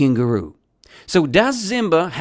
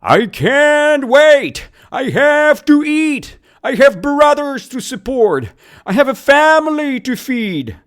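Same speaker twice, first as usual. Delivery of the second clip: yelling; 11 semitones higher, 6 dB louder than usual. Acted. Teacher acts out hungry unemployed kangaroo to students, yelling. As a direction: yell it out at the top of the voice. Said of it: "So did Zimba yell".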